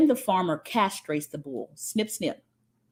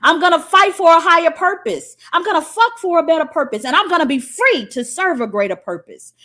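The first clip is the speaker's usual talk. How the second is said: solemn vow; 3 semitones higher, 4 dB louder than usual. Retold or imitated. A man renouncing selfishness, vow building loud. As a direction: swear it, growing louder each line. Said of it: "the symbolism of a man saying".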